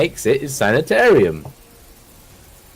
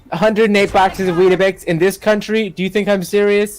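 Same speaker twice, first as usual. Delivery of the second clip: outraged judge; 4 semitones higher than usual. Acted. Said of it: "the words of the judge just being like".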